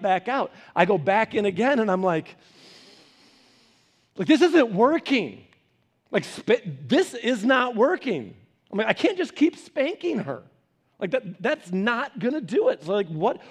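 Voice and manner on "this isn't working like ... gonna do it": exasperated. Retold or imitated. Acts his exasperation at failed spanking.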